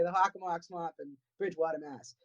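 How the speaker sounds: Hockomock Swamp in Bridgewater said with a quick New England accent. Shown as a demonstration. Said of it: "Or as I say".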